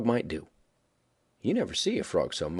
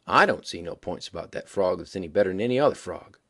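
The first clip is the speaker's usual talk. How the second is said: very deliberate; 3 semitones lower than usual. Acted. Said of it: "very deliberate".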